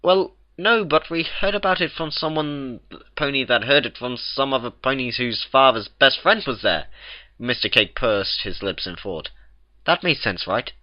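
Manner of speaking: a hint of embarrassed gossip; lightly voiced baker. A narrator's reading. The Cakes admit they only heard it secondhand.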